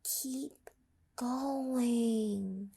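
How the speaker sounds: soft whispered encouragement; little inner voice. Acted. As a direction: whisper it like a voice deep inside. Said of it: "a little voice deep inside Mabel's heart said".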